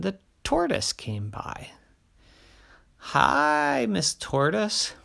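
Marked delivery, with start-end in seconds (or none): 3.0-4.9 high, bright big bear greeting; cheerful big bear, lightly voiced.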